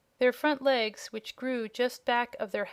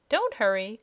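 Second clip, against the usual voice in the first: called out; 4 dB louder than usual. Acted. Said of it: "called one of the dragonettes".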